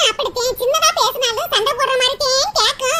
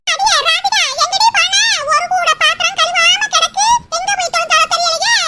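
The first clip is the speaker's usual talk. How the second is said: loud, nagging call through the house; mother-in-law bellowing for Radhika; yelling mother-in-law; 2 semitones higher, 3 dB louder than usual. Acted. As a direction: shout for the daughter from the kitchen.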